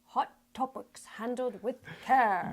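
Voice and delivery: slow, bright announcer character voice. Acted. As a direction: sell it like a sweet promo host. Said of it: "her character voice".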